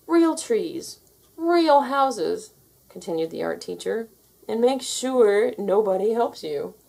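stern teacher. Acted. Art teacher insisting to Terry, stern. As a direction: press each word home.

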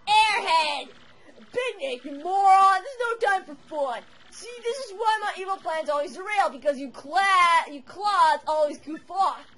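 loud, high furious monster king; furious villain rant. Acted. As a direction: blow up at a useless minion. Bowser scolds servant furiously.

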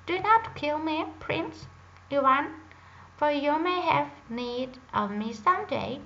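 a small bird crying out for mercy; talking drake. Acted. Drake begs Prince Ivan to spare it, high and loud. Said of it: "the drake said in a human voice".

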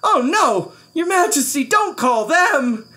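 high, alarmed pleading; frightened page boy crying out; fearful pleading. A narrator's reading. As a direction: beg the king in panic. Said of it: "Bartholomew shivered".

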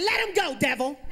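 high, loud cry to cast out the devil; mock-frantic mom shouting at the devil; mom yelling at devil. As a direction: yell it like an exorcism, half laughing. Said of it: "she started yelling".

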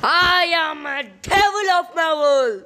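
high, slow, booming villain shout; devil roar. Acted. Movie-addicted patient bellows his devil line, slow and loud.

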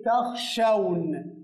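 تخشون said slowly and carefully; slow model word. Shown as a demonstration. Teacher giving a new example verb slowly. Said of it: "زي ما أقول إيه؟".

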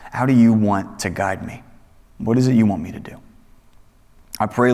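hushed pastoral prayer. Acted. Leads congregational prayer.

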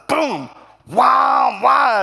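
loud, high mock punch sounds; shouted impact noises. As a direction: shout each blow like a cartoon hit. Acting out the blows he landed.

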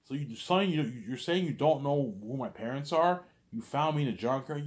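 loud, high disbelieving cry; indignant shout. Retold or imitated. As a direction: shout back in shocked protest.

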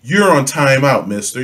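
mock mild scolding. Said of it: "like white people do".

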